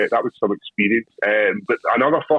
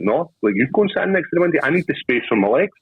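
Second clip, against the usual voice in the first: insistent retort; 4 semitones higher than usual. Retold or imitated. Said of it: "I was like".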